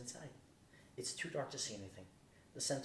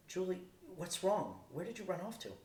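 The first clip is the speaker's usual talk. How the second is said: higher, louder, urgent call down the phone; worried call; 7 semitones higher, 3 dB louder than usual. Acted. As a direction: call out to her, alarmed, slow on wrong. Sam calling after Julie ran.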